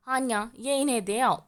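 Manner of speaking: panicked urging. A narrator's reading. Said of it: "चेहरे के रंग उड़ रहे थे".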